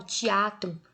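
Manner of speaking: "teatro" with the middle syllable A strongest; stress on A in teatro. Shown as a demonstration. Teacher asking pupils for the strongest part, stressed A in "teatro". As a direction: lean on the A of "teatro". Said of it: "a parte mais forte é o quê?".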